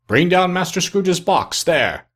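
high, slow schoolmaster's call; terrible cry. A narrator's reading. Schoolmaster calling down the hall, terrible commanding cry. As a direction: call it out high and drawn out, with authority. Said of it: "A terrible voice in the hall cried".

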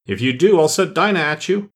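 Alice threatening the animals outside, calling loudly. Acted. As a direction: call out a warning through the wall. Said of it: "called out as loud as she could".

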